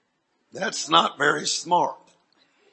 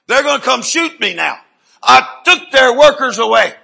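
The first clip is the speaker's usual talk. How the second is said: loud, raised preaching shout; heated shouting; 4 semitones higher, 9 dB louder than usual. Real, not acted. Preacher warning that cartel will come, loud and heated. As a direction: shout it with urgent force.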